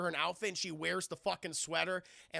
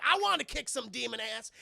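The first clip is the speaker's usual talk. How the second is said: raised, quick fighting boast; mock battle cry; 4 semitones higher, 4 dB louder, faster than usual. Bo starting to beat Pan Man, mock battle cry. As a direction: play a fighter psyched up to brawl.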